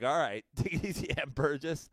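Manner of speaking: a hint of Boston crook, laughing through it; playful imitation of a Boston heist man; Jeremy Renner. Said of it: "Sound like Jeremy Renner in the town".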